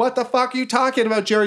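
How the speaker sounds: high, quick incredulous goblin; baffled goblins. Acted. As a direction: fire back in a high voice. Game master voices baffled goblins.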